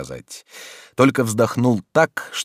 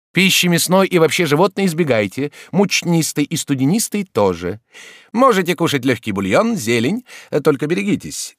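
higher, louder doctor advising brightly; raised voice of a doctor giving advice; doctor's voice; 9 semitones higher, 4 dB louder than usual. Acted. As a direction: play the chatty society doctor. Doctor lists a diet.

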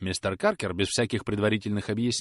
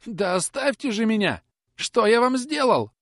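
much higher, louder desperate cry; hoarse cry; 13 semitones higher, 5 dB louder than usual. Acted. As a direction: yell it out choking. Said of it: "хриплым голосом закричал". (хриплый отчаянный крик, намного выше)

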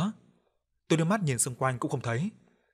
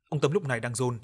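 usual speaking voice

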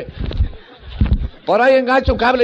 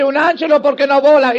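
mock Italian; 3 semitones higher, 4 dB louder than usual. Pope answers in Italianish.

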